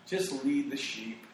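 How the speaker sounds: slow, drawn-out quoted catchphrase; Jesse Ventura. Retold or imitated. Quoting a wrestler's motto about the fans, slow and deliberate. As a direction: stretch each word out like a knowing motto. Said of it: "Jesse Ventura always would say that too".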